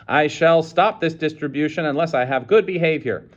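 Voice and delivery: stern threat. A narrator's reading. Bursar threatens angrily.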